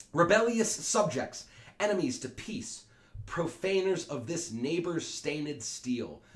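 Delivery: high, loud, slow condemnation; stern royal rebuke. Acted. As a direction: slowly thunder down on rebels. Prince rebukes the brawlers.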